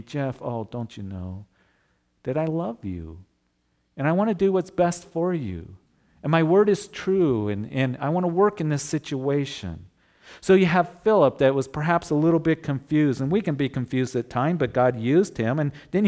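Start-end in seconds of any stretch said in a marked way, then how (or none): 0.0-9.9 a tender, reassuring voice of the Lord; gentle, compassionate. Retold or imitated. The Lord comforting Jeff, gentle and compassionate. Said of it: "gently and out of his compassion".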